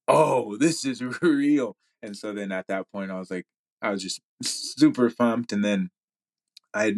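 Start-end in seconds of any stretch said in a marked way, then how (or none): 0.1-1.8 drawn-out, higher "oh" breaking into a laugh; laughing amazement. Retold or imitated. Athlete recalling the moment it became real, laughing amazement. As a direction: laugh through the slow realisation. Retelling a joyful realisation, laughing.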